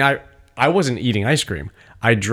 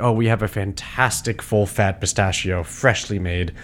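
hushed mock sommelier; 3 semitones lower than usual. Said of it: "It's like".

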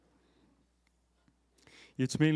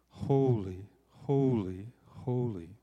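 seraphim calling; much slower than usual. Acted. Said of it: "calling to one another".

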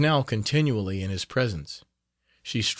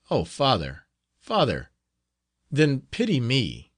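pleading; 2 semitones higher than usual. Acted. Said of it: "with a faltering voice".

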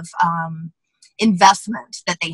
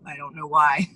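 hoarse voice; 3 semitones lower, 5 dB quieter than usual. Real, not acted. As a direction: voice nearly gone, rough. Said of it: "my voice is gone".

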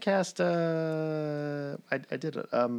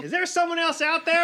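character voice; 6 dB louder, faster than usual. Acted. In-character question.

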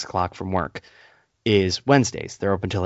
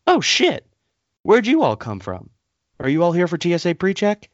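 flustered clerk; 8 semitones higher than usual. Retold or imitated. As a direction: squeal it out like a startled clerk. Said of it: "flustered, and goes".

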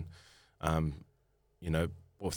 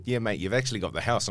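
mock shout; 3 semitones higher than usual. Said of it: "he called me back and said".

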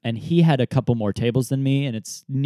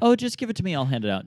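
impatient mom; 8 semitones higher, much faster than usual. Retold or imitated. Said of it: "my mom looks at him and goes".

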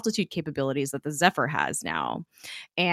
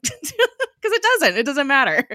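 high, loud and emphatic through real laughter; laughing agreement; 10 semitones higher, 7 dB louder than usual. Real, not acted. Host agrees the show's specifics are irrelevant, laughing emphatically. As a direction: crack up while insisting on it.

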